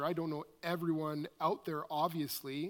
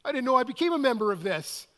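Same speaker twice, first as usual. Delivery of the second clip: higher, quicker acted bafflement; mock surprise; 6 semitones higher, 6 dB louder, faster than usual. Member reacting to an unexpected email, mock surprise. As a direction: play someone caught unawares, voice rising.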